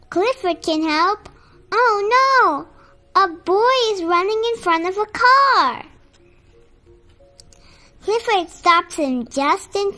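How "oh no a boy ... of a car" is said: high, loud dramatic alarm; alarmed storytelling. A narrator's reading. Storyteller warning of a boy in danger from a car, alarmed. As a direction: raise the voice at sudden danger.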